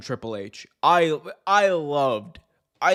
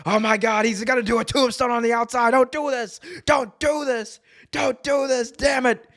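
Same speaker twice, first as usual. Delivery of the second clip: much higher, panicked pleading shout; Jim Ross call; 10 semitones higher than usual. Retold or imitated. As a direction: beg the wrestler to stop. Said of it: "J R was on the call like".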